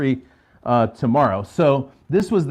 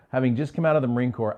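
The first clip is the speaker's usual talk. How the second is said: normal talking voice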